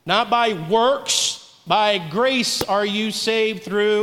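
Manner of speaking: very slow, every word weighted; slow preaching. Acted. Pastor leading the congregation to finish the verse, very slow.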